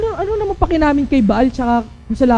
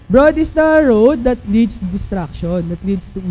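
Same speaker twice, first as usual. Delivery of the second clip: scripture reading; 4 semitones lower than usual. Acted. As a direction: read the verse with weight. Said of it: "So sabi". (mabagal na pagbasa ng talata)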